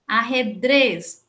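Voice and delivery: "Arredrez" devagar, com DREZ forte; tônica na última sílaba. Shown as a demonstration. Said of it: "última sílaba tônica". ("Arredrez" pausado, acentuando o final)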